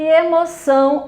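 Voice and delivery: "emoção" with weight on ção; teacher's demo of "emoção", stressed on ção; stress on final syllable. Shown as a demonstration. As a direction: model "emoção", leaning on the last syllable. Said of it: "a sílaba tônica são".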